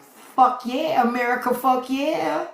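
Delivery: high, whooping patriotic cheer; mock-hyped American cheer, high pitched; cheering Gab. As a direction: shout it like a fired-up fan. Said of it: "Gab is like".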